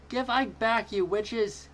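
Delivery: high, loud angry yell. A narrator's reading. Girl yells at the aliens, loud and angry. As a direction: hurl it up at the witches.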